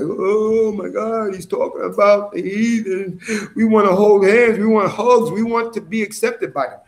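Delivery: mocking Christian listener. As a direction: parody a shocked churchgoer pleading for acceptance. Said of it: "your Christian ears are gonna be wiggling like".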